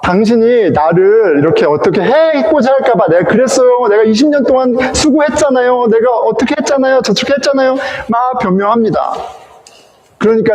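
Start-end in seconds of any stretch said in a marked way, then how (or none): 0.0-7.7 mock defensive Jacob, pitched up; acted defensive excuses. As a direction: protest your case in a run of excuses. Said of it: "야곱이 변명하죠".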